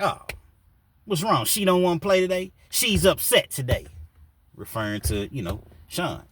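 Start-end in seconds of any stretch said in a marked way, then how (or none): 0.0-3.9 mocking taunt.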